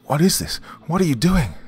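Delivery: high, loud alarmed shout; scream. Acted. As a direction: demand answers in shock. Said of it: "I screamed".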